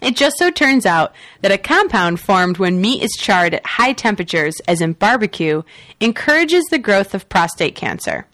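editorial newscaster read; news read. Acted. Reads the next news story.

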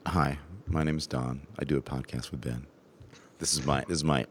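low creaky vocal fry voice. Shown as a demonstration. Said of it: "trying to get a little vocal fry here".

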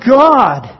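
loud, high, slow rallying plea; crying out. Acted. Preacher as David calling God to battle, crying out. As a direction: call up to God with drawn-out, forceful words. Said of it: "David is crying out like this".

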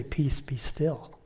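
slow soft whisper, Peace be still; breathed calm command to a restless heart. Shown as a demonstration. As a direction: hush your own heart, slowly. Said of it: "tell our hearts that".

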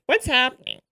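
nasal Chicago grandma imitation; lightly nasal impression of grandma. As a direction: pinch it through the nose like grandma. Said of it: "much more nasal".

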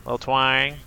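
half-hearted Southern twang. Pretend. Asked by co-host for a little twang, weak Southern accent. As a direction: try a little Southern drawl, not very well. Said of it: "I don't really do the Southern accent very well".

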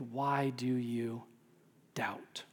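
soft unvoiced whisper, fading at the end. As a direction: breathe the question out gently. Jesus gently rebuking sinking Peter.

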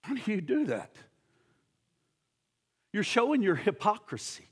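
Jesus gently confronting a hypocrite, softly; quiet rebuke. Acted. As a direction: ask it quietly, almost sorrowful.

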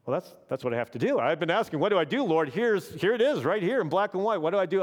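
mildly thrilled at finding the answer; excited realisation. Retold or imitated. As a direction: friend voicing his breakthrough, a touch excited. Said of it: "he's like".

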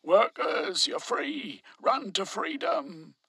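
high, loud rallying yell from a platform. A narrator's reading. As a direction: call out to the crowd, triumphant. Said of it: "Bertrand yelled from the dais".

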